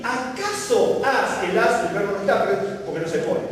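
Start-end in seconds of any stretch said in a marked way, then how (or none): 0.0-1.5 "¿acaso has" read slowly, stressing "acaso". Shown as a demonstration. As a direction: spell out "¿acaso has" word by word. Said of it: "Dice, a mí". ("¿acaso has" leído despacio, recalcando "acaso")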